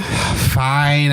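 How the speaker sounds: mild put-on reluctance; grudging acceptance. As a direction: give in with a touch of grudging.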